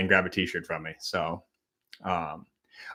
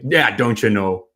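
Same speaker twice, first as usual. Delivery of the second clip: Wisconsin accent. Shown as a demonstration. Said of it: "Milwaukee accents are".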